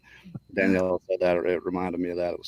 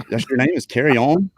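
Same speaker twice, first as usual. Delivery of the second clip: puzzled, rising retold question; a mild incredulous check on the name; 4 semitones higher than usual. Man double-checks a name he misheard at the conference, puzzled.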